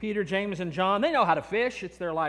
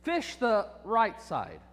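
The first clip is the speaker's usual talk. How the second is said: calm instruction; 5 semitones lower, 4 dB quieter than usual. Acted. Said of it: "he says".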